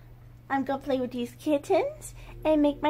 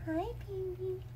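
high cooing to a noisy kitten; 10 semitones higher than usual. Real, not acted. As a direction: tease the kitten sweetly. Cooing to her cats.

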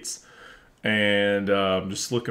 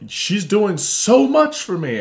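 mock whiny quote; 8 semitones higher, 4 dB louder, slower than usual. Mocking her offended reply.

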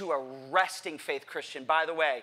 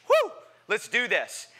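pretend bravado; 4 semitones higher, 4 dB louder than usual. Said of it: "I pretend like I'm a".

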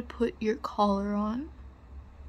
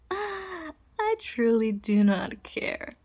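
emphatic dismissal; 5 dB louder, much slower than usual. Acted. Dismisses the pup's shyness.

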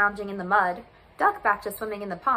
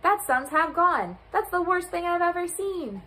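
bleating goat; 7 semitones higher than usual. A narrator's reading. Goat shocked by the vanishing sun, bleating high. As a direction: bleat the words in dismay. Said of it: "bleated Goat".

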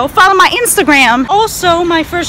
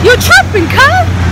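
mock outrage; 9 semitones higher, 4 dB louder than usual. Real, not acted. Taunting the truck driver.

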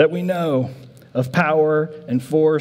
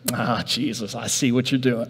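knowing disciple; 5 semitones lower, 5 dB quieter than usual. Acted. Disciple voiced, thinks he understands.

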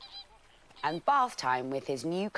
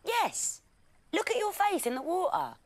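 lion voice; 4 dB louder than usual. A narrator's reading. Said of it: "said one of the lions".

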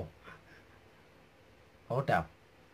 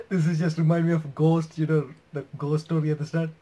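laughing while talking; 6 semitones higher, 11 dB louder than usual. Real, not acted.

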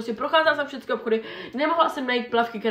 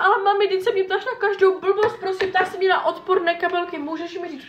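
exasperated protest; 7 semitones higher than usual. Retold or imitated. Daughter protesting to mom, higher. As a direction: whine in disbelief.

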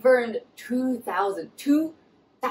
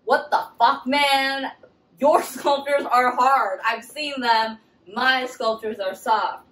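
indignant outburst; 3 semitones higher, 4 dB louder, slower than usual. Retold or imitated. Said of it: "she's like".

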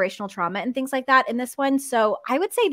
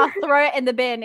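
mock British accent; 2 semitones higher, 4 dB louder than usual. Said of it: "It just sounds so posh".

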